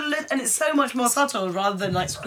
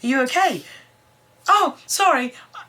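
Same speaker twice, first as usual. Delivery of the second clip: high sing-song concern then sheepish; imitating a sweet sheepish reply; mock worried; 6 semitones higher than usual. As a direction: play it light and sheepish. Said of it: "She literally breaks in and goes".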